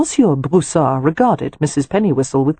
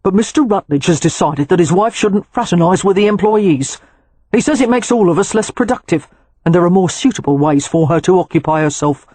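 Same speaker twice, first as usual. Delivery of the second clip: uneasy valet; 3 semitones higher than usual. Acted. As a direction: explain the master's rule stiffly. Valentine explains master's orders.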